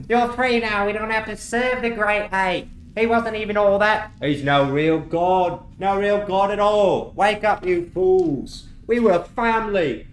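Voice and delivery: rally the fools, pleading hard; pleading goblin Andre. Acted. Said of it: "Andre goes".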